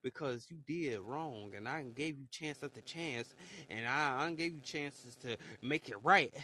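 low, soft imagined divine warning; lightly voiced stern speaker, low and hushed; God. Quoting a warning to a wrongdoer out of chances, low and soft. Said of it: "God said you gonna wake up".

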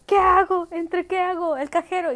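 loud, high panic; loud panicky what-do-I-do; panicked question. Retold or imitated. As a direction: torn and frantic. Torn between the ATM and car.

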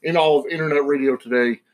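booming ring announcer hype; grand entrance announcement. Acted. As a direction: introduce the show like a wrestling announcer. Podcast intro announcement.

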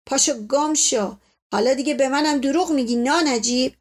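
understated, indignant rebuke; angry scolding. Acted. Uncle sends off his lying servant, mildly angry. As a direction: tell off a liar with contempt.

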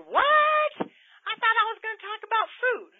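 high, loud mock surprise; surprised listener. A listener surprised the talk isn't about food, high and loud. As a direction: squeak out a puzzled listener's What. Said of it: "I know this can be like".

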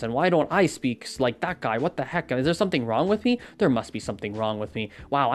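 mock-stressed inner rant about no progress; hammed-up self-doubting rant; anxious rant. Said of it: "that little rant right there".

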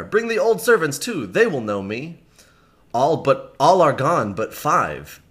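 lightly voiced knight, a touch of grief; grieving Miles. Reader voicing Miles Hendon hearing of his father, mild grief. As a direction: read Miles as a man hearing bad news.

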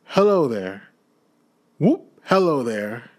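quick, giddy, bursting with glee; old man giddy with Christmas joy. Acted. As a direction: babble like a giddy schoolboy. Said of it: "as giddy as a drunken man".

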